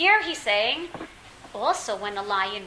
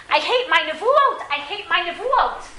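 high, loud, drawn-out protest; slow, raised-voice lament; anguished complaint; 6 semitones higher, 4 dB louder than usual. Acted. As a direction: act out a prophet fed up with his burden. Acting Yirmiyahu's complaint about prophecy.

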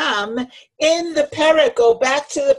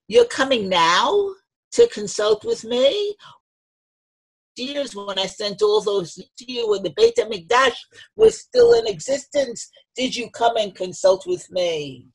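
lightly voiced divine rebuke; retold anger; 3 semitones higher than usual. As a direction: challenge them with a touch of anger. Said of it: "there's some anger there".

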